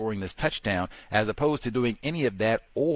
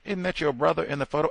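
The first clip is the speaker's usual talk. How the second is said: mock question; 6 semitones higher, faster than usual. Mock question to photo person.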